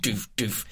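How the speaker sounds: soft spoken kick-drum thuds; mock dance beat. Host imagining a house remix, imitated beat. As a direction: imitate a thumping house beat under your breath.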